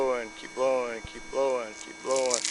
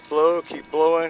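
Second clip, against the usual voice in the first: drawn-out urging; 4 semitones higher, 8 dB louder, much slower than usual. Real, not acted. Officer urging the breath test.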